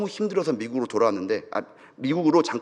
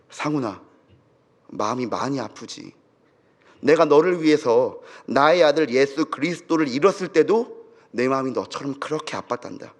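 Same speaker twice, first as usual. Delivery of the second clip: voice of the Lord. Retold or imitated. The Lord speaks to the grieving pastor, lightly voiced consolation. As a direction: console a grieving father, measured and gentle. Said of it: "주님의 음성이랍니다".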